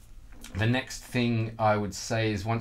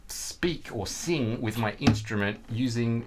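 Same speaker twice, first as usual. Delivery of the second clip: slow unvoiced whisper; slower than usual. Real, not acted. Teacher whispering his idea to the students. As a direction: whisper it like a secret. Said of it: "whispered aside".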